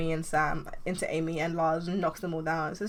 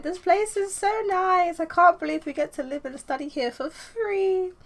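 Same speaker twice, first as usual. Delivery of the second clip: awed delight; 12 semitones higher, 4 dB louder than usual. Acted. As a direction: marvel at the room. Amy sees the dorm.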